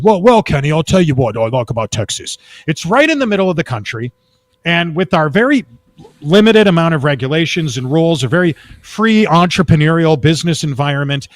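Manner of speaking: light imitation of a thick British accent; a hint of a British businessman's accent. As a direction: lightly put on British accent, telling a friend's story. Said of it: "with his thick British accent".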